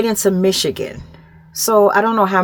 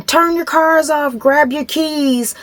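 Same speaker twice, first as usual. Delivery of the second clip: higher-pitched, measured mock commands, said nicely; toned-down drill sergeant; 3 semitones higher than usual. Officer ordering drivers out of their cars, a nice version of yelling. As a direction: imitate yelled orders without the volume. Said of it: "yelling like a drill sergeant. Like, I'm saying it nice".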